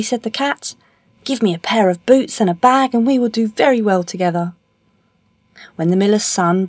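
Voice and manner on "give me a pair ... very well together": higher-pitched storybook cat voice; confident cat. Acted. Cat asking the miller's son for boots, confident. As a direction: voice an eager cat with a raised pitch. Cat's speech in story reading.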